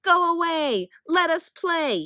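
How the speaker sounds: high, loud booming command; thundering. A narrator's reading. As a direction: thunder it at the giants. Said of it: "he thundered".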